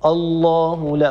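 الله with a thick, darkened opening hamza, slowly; wrong heavy hamza. Shown as a demonstration. Teacher shows a common mistake: الله with a heavy hamza, slow. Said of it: "لا يصح مثلًا أن نقول".

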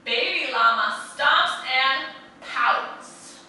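sing-song picture-book rhythm; animated read-aloud to a class; reading to children. A narrator's reading. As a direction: lilt it like a bedtime story for little ones. Reads rhyming picture book aloud.

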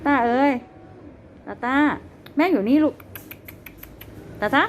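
high, loud sing-song call; calling a pet. Real, not acted. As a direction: call the bunny over brightly. (เรียกสัตว์เลี้ยงเสียงสูง)

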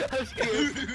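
scared. Real, not acted. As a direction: squeal it out in fright.

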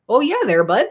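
put-on Canadian accent. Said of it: "my accent, I could hear it there".

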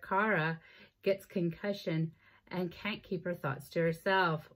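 lively book-synopsis read; lilting read-aloud of a book summary; reading a blurb aloud. Acted. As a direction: read the back cover out to viewers.

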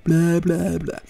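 loose blah blah warm-up; tongue exercise. Shown as a demonstration. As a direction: flap the tongue through blah blah. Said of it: "like a tongue exercise".

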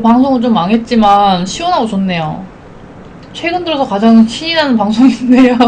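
talking around spoon; spoon at lips. Real, not acted. Seen 1: Spoon with food held at or in her lips while talking.

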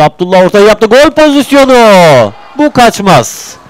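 high, loud, certain it goes in; excited chance call. Real, not acted. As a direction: call the sure goal. Big chance in front of goal.

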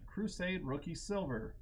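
excited card reveal. Real, not acted. Announcing a good card pull.

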